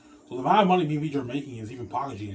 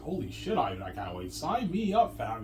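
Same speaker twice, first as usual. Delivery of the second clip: excited Rabbit; slower than usual. Retold or imitated. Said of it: "He's all excited".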